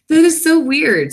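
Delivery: genuinely thrown by the notification; surprised. Real, not acted. To viewers about the stream time, surprised.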